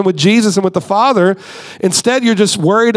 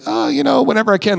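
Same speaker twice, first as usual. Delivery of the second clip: mock sheepish churchgoer; 4 semitones higher, faster than usual. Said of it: "the person's like".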